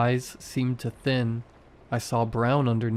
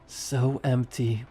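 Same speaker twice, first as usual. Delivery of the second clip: wet voice; slower than usual. A narrator's reading. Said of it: "Her voice was wet now".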